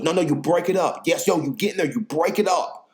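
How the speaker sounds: lightly voiced owner giving orders; imitating the owner. Owner instructing how to eat.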